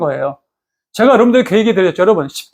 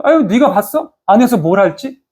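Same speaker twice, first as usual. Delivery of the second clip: mock criticism; 2 semitones higher than usual. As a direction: imitate a scoffing critic. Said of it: "비난하면서". (비난하듯 따지는 말투 흉내)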